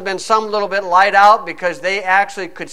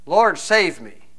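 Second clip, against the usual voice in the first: "Lord, save me" slow and softer, each word weighed; earnest prayer; 3 dB quieter, slower than usual. Shown as a demonstration. Preacher showing the congregation true prayer, slow earnest plea. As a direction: pray "Lord, save me" like a sinking man meaning it. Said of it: "that kind of praying to save a man's soul".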